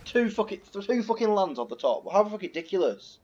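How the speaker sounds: high, exasperated complaining; disgusted rant. Real, not acted. Streamer complaining about two lands on top, high exasperation. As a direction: whine in disbelief at the draw. Ranting at the draw.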